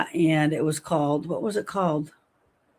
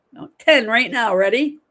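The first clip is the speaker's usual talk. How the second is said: coach calling out; 3 semitones higher, 6 dB louder than usual. Acted. Coaching a Kegel set.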